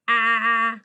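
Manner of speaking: "Ah" loud, the short A of blank; short A sound. Shown as a demonstration. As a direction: isolate "Ah" firmly as a short-A vowel. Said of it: "making the vowel sound short".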